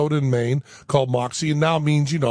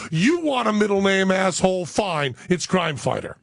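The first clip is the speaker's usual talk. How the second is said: exasperated wife; 4 semitones higher than usual. Retold or imitated. Wife's acted exasperated retort.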